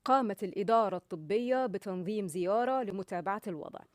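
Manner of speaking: Gulf Arabic with Egyptian eh endings on "الإدارة" and "زيارة"; wrong Gulf tone, Egyptian vowel endings; Egyptian-tinged Gulf accent. Shown as a demonstration. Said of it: "علشان التون يبقى أه مش أه". (لهجة خليجية بنطق مصري خاطئ)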